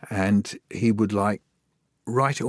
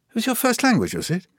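higher, mock-surprised child; surprised question; 12 semitones higher than usual. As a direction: ask it as a startled kid.

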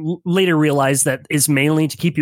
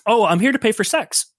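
blithe stranger; 4 semitones higher than usual. Acted. Stranger blithely answers the paladin.

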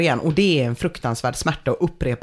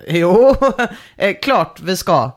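awkward joking answer, starting louder with a laugh; half-joking; 5 dB louder, slower than usual. Acted. Stalling the girlfriend through the door, acted half-joking reply. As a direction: laugh it off, acting embarrassed. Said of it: "så jag säger lite skämtsamt".

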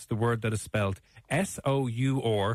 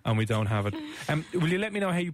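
mock waitress; 3 semitones higher than usual. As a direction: play a baffled waitress, lightly. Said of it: "These waitresses are just looking at you going".

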